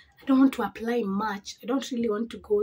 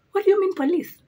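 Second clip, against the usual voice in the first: retold disbelief; 9 semitones higher, 7 dB louder than usual. Retelling her alarmed reaction.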